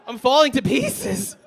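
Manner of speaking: high, loud, drawn-out cry of despair; hammed-up meltdown at full volume; desperate breakdown. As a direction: yell it slowly, as if coming apart. Comic breakdown over becoming Scottish.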